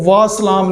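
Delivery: "وا سلام" clipped, said low; wrong short reply. Shown as a demonstration. Teacher showing the lazy short reply, clipped. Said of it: "نہیں کہے گا".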